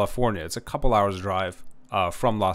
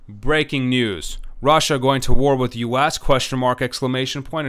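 punchy, louder breaking news headline; sensational breaking news; 4 dB louder than usual. Retold or imitated. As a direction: hype it like a cable anchor. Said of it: "you turn on one of the news stations".

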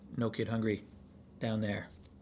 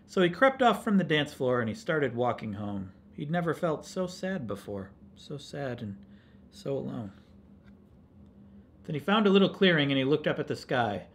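gentle storytelling, fading on the sad part; story read to children. A narrator's reading. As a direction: read it to children, softening as he grows lonely.

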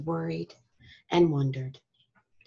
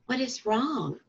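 asked gently; 4 semitones higher, 4 dB quieter than usual. Acted. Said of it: "Badger asked gently".

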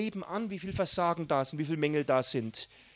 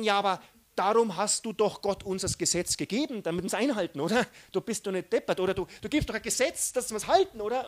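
arguing believer; 3 semitones higher, faster than usual. Retold or imitated. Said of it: "Wir denken".

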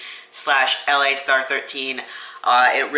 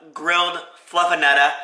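light Boston accent, higher pitch; 3 semitones higher than usual. Shown as a demonstration. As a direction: say it Boston-style, dropping the final r. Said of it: "say it with a Boston accent".

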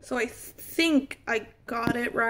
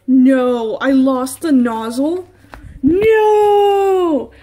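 panicked cry; 8 dB louder, much slower than usual. Real, not acted. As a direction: wail at the lost part, half laughing. Panics over the lost nozzle.

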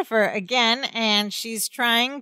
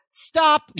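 mock firm command; 7 semitones higher, 3 dB louder than usual. Retold assertive command that frightens cousin.

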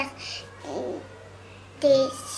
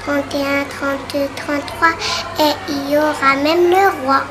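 loud finish; 6 dB louder than usual. Shown as a demonstration. Big finish of the rhyme.

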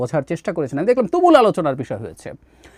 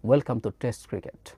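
very slow, drawn-out welcome in a lightly imitated commentator voice; a hint of Richie Benaud's measured broadcast tone; quoting Richie Benaud; 5 semitones lower, 6 dB quieter, much slower than usual. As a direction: savour each word like a veteran cricket commentator. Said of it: "রিচি বেনো, famous commentator, বলেছিলেন".

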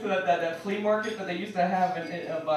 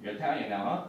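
mock Irish dad; 10 semitones lower, 6 dB quieter than usual.

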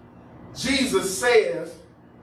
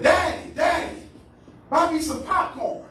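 high-pitched imitation of children; excited kids; 6 semitones higher than usual. Kids running up to ask for popcorn, imitated pleading. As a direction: pipe up like kids begging a parent. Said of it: "they ran up to me saying".

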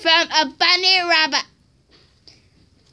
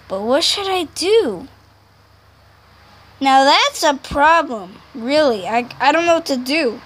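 Plushtrap toy voice; 2 semitones lower than usual. Acted. Child voices Plushtrap toy figure.

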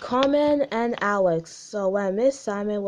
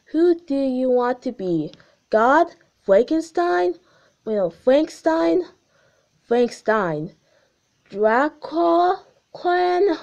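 spooky; 6 semitones higher, 5 dB louder than usual. Acted. Gumball acting spooky host.

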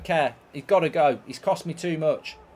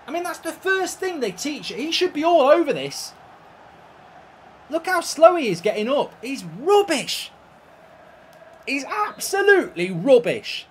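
loud, high-pitched angry rant; worked-up, raised-voice tirade; exasperated rant; 8 semitones higher, 5 dB louder than usual. Real, not acted. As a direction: rant at your useless keeper in disbelief. Ranting at his blundering goalkeeper.

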